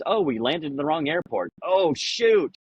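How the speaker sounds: high, dismayed pilot voice; hammed-up dismay; mock pilot oops. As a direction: act out a pilot's sudden oops. Mock pilot realizing mistake.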